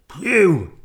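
high, loud phew; big storybook sigh of relief; relieved dog. A narrator's reading. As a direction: puff it out as the dog. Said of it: "said the dog".

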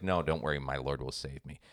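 lightly voiced pious preacher, sure of rescue; calm preacher. Preacher refusing the lifeboat, told in a joke, softly serene.

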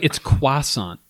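croissant said the French way, "kwa-sahn"; croissant in a mock French style. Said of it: "half the time they're like".

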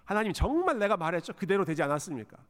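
mildly acted reproach; arguing with God. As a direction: press God with an insistent complaint. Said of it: "하나님께 따지는 겁니다". (하나님께 따져 묻는 투)

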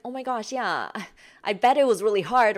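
mock people-pleaser overdoing concern; fake sympathy. Shown as a demonstration. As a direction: overdo the concern so it rings false. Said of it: "become fake".

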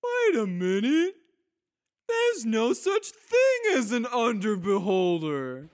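high, loud, startled voice; drow underling. Acted. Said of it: "the drow underlings goes".

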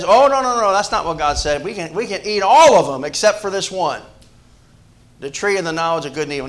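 quick eager protest as Eve; a mild voicing of Eve, jumping up to object; lightly acted Eve correcting the serpent.

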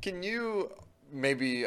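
ordinary talk, nothing marked

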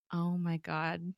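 slow, soft, unimpressed; eye-rolling groan. Retold or imitated. Reacting to a cheesy pun, slow and unimpressed. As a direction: drag it out like rolling your eyes. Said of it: "big eye roll".

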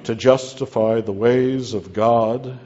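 loud phrase broken by laughter; laughing. Real, not acted. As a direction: burst out laughing on the words. Laughs while stressing phrase.

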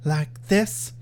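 slow, coy playing-dumb Buffy; slow teasing faux-naive reply; mock Buffy coyness. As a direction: feign innocence, drawn out. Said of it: "She's like".

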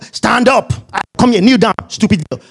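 mock bossy orders; rude commands. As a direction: imitate a rude voice ordering someone around. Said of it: "God is not rude".

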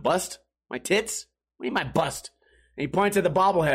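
usual speaking voice

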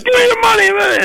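high, hammed-up stickup voice; the barber robbing him in the car, mock menacing; mock robber demand. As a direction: demand the cash.

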